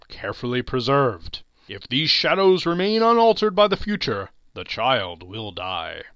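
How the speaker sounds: solemn ghost. Acted. Ghost foretells Tiny Tim's death.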